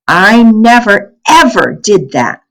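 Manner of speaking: high, loud, slow indignant denial; indignant child. A narrator's reading. Kirsty protesting from the bedroom door, high and drawn out. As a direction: stretch it out like an offended little girl. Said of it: "Kirsty said haunt-, hauntingly".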